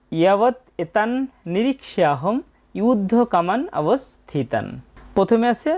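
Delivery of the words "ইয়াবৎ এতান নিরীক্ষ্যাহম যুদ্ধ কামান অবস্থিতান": slow "ইয়াবৎ এতান", each word set apart; model verse pronunciation. Shown as a demonstration. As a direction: recite "যুদ্ধ কামান অবস্থিতান" slowly with long vowels. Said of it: "প্রথম লাইনে উচ্চারণটা হবে".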